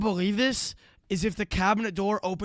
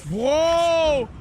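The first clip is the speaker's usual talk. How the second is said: startled; 7 semitones higher, 4 dB louder than usual. Real, not acted. Startled by the clip.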